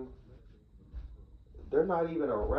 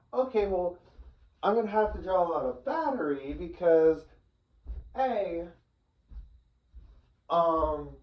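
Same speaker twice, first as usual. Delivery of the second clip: talking clock's thoughts. Retold or imitated. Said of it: "that's what the talking clock's first thoughts were".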